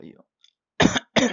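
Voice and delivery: words stretched by a yawn. Real, not acted. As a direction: talk through a yawn.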